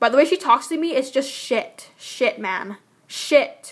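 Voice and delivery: angry, mad tone. Complaining about how someone talks to them, swearing: angry. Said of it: "I'm swearing 'cause I'm angry right now".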